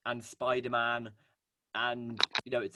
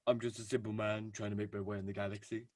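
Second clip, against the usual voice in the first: a hint of a New Zealand accent; lightly put-on New Zealand accent; 4 semitones lower, 4 dB quieter than usual. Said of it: "That's my excellent New Zealand".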